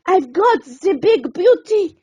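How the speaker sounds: sporty cook crowing over his catch; shouting sous chef. Acted. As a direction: yell it as you lunge. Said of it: "he started to shout".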